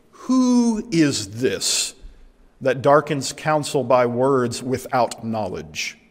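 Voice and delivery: stern, drawn-out challenge from God; slow, deliberate divine rebuke, lightly acted. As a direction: confront him as God, taking your time. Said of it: "Very different tone from chapter one".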